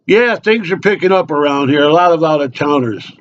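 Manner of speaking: small-talking local, voice lifted; chatty barfly. Acted. Local making small talk with an out-of-towner, chatty. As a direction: chat away unasked like a bar regular.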